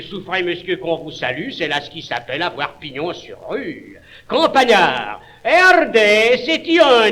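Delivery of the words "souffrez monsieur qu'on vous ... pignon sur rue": softer, deferential tone; bow and speak respectfully. Acted.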